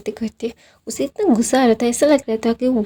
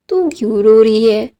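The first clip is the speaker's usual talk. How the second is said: indignant yell; 6 dB louder than usual. Retold or imitated. Bitten boy protests crying girl.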